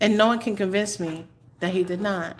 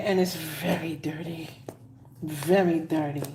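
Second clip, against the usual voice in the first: whispered aside; 4 semitones lower, 4 dB quieter than usual. Real, not acted. Reader gossiping about dirty Seaport, whispered. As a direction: whisper it softly.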